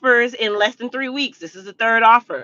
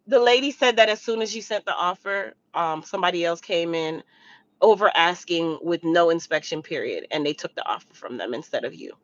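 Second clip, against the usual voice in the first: bad news; 6 semitones lower, 7 dB quieter than usual. Realtor friend delivers bad news.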